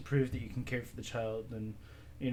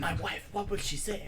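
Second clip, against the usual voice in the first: put-on French accent; 8 semitones higher than usual. Mock French despair.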